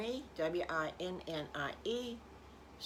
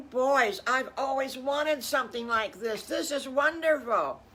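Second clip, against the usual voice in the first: loud, high gushing thrill; overjoyed, pitched-up character voice; delighted mama pig; 7 semitones higher, 7 dB louder than usual. Acted. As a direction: exclaim it with big delight. Mama delighted by her present.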